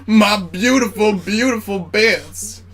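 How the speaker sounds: high, slow, drawn-out wail; hammed-up mourning, stretching each word; mock lament. Drinker mourns the spilled sediment, high slow mock lament.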